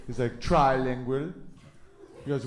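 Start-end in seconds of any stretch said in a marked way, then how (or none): 0.4-1.3 put-on French-accented punchline; lightly put-on French accent; mock French accent. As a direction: imitate a Frenchman answering his own riddle. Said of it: "this one French guy".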